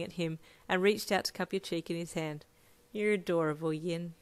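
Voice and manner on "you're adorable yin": gentle. Acted. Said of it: "he said gently".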